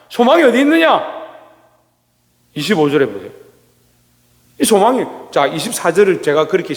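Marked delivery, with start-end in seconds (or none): 0.1-1.2 소망이 pushed up very high, voice changed, falling at the end; repeating the question to the church, pitched far higher and with a changed voice; even higher repeat. Shown as a demonstration. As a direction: call 소망이 어디 있느냐 out much higher, leaning on 소망이.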